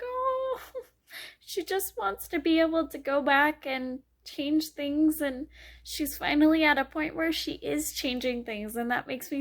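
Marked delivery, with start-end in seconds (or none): 0.0-5.2 choked up and laughing through it; teary gush. Retold or imitated. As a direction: voice cracking with happy tears. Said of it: "and I'm like".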